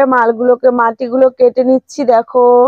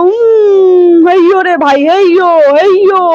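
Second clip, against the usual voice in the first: straining heave; 3 semitones higher, 3 dB louder, slower than usual. Pretend. Hauling the truck out.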